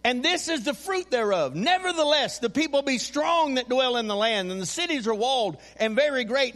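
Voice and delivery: projected, sustained reading from the pulpit; scripture reading. Acted. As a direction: read the Bible verse out to the congregation. Reads scripture aloud to congregation.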